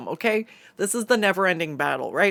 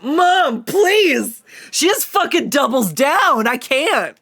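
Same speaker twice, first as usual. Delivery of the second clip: much higher and louder "please!"; mortified shriek; 10 semitones higher, 9 dB louder, slower than usual. Retold or imitated. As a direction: squeal it like a mortified kid. Mom doubles down.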